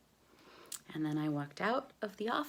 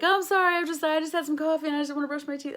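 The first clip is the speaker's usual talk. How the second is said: high, louder, rushed apology; nervous costar; 11 semitones higher, 6 dB louder, much faster than usual. Retold or imitated. Costar explains why he turned away, nervously. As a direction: play the flustered actor. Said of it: "he was like".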